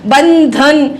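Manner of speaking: बंधन with a held dental n, then धन; careful two-part बंधन, n sounded fully; n before ध. Shown as a demonstration. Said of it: "ध से पहले है तो न आएगा".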